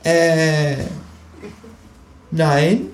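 high, hesitant creature voice; stall, then deny in a high voice; caught-out kangaroo. A narrator's reading. Kangaroo caught pawing food, denying it hesitantly.

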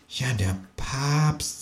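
soft, slow and ominous; quiet. A narrator's reading. Kangaroo quietly, darkly agrees about the Pope. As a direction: drop your voice on the Pope. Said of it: "sagt das Känguru leise".

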